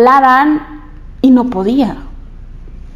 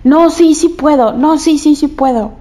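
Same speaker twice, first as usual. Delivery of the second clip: self-encouragement; 3 semitones higher than usual. Retold or imitated. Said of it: "me bajé y dije".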